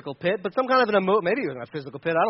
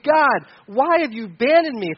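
higher, pleading cry to God; 3 semitones higher, 4 dB louder than usual. Acted. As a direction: call out as if abandoned. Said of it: "David is crying out to God".

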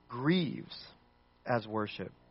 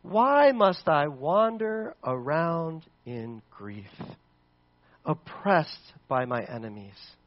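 slow mournful plea; slower than usual. Acted. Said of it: "He says".

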